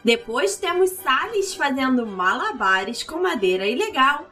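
lightly voiced circus ringmaster. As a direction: announce it like a big-top ringmaster.

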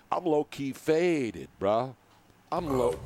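slow, laid-back mock of a buzzed gamer; imitating Ezekiel Elliott. Host quoting a football star's stream to a guest, slow mock line. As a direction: stretch it out slowly like a player caught on a hot mic. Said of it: "as Ezekiel Elliott said on his Twitch stream".

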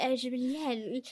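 mumbled mock posh English; posh British accent. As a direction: caricature an upper-crust British accent. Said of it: "The posh accents that are like".

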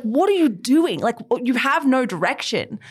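mildly frustrated, as if scolding her; exasperated. Retold or imitated. Podcast host recalling frustration with a book's heroine, exasperated. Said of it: "I was so frustrated".

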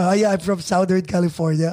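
put-on "Southern" as SOW-dern, Filipino accent; thick accent. Saying where they are from, thick Filipino accent. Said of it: "thick accent, baby".

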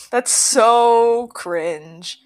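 slow, laughing, embarrassed. Real, not acted. Laughs at own answer.

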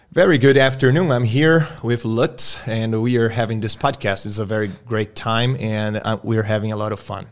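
slow, careful spoken English; live dictation demo. Shown as a demonstration. Teacher demonstrating dictation to Google Translate, slow careful English. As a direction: enunciate each English phrase for a voice-typing tool. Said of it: "vamos fazer um ao vivo aqui".

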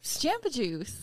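"Jamba Juice" with a short A as in "jam"; demonstrated pronunciation. Shown as a demonstration. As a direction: say "Jamba" on request, first A flat. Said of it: "Say it".

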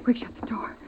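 urgent terrified whisper; frightened whisper. Acted. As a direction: hiss it low, scared of being heard. Terrified mother hiding in attic.

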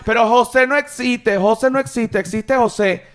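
queja aguda imitando al que corrige; protesta fingida. Acted. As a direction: discute el nombre con voz alta y aguda. Imita a quien discute su nombre. (protesta exagerada, en tono agudo)

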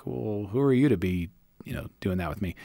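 a touch of offended, trailing into a whisper; mock-defensive, dropping to a whisper at the end; a hint of a put-out coworker brushing off prying, whispered; put-off muttered reply. Acted listener put off by prying.

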